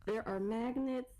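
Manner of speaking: lightly voiced mock conspiracy nut; conspiracy believer. Comedian mocking vaccine magnet fears, as a conspiracy believer.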